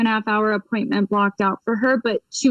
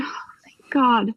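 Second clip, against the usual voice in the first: whispered thank God, all breath; whispering with relief; relieved whisper. Retold or imitated. Relieved after client agrees.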